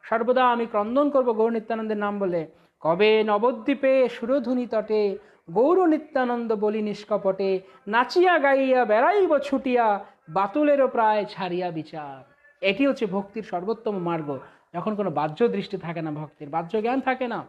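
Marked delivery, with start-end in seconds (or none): 2.8-12.3 slow, chanted verse; devotional recitation. Acted. Preacher reciting Bhaktivinoda's hymn, slow and chanted. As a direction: intone the hymn lines slowly.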